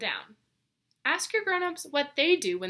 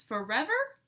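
rising, slightly higher disbelieving question; surprised question; 4 semitones higher, 3 dB louder than usual. Acted. Goose hearing Smudge left home, asking in surprise. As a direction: ask it in disbelief.

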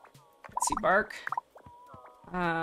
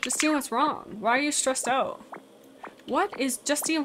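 ordinary talk

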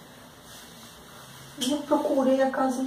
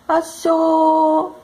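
louder, higher gleeful "Achou!" cry; retold kid's shout; 6 semitones higher, 5 dB louder than usual. Son popping out of the wardrobe, shouting higher and louder. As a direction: jump out and yell it like a kid winning hide and seek. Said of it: "esse moleque".

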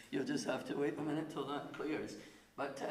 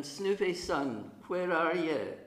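calling the dog; 3 semitones higher, 5 dB louder, slower than usual. Retold or imitated. Owner calling his hiding dog from the doorway, loud call. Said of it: "And then I would say to him".

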